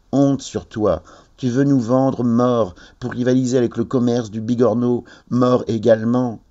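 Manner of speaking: accusing sea urchins. A narrator's reading.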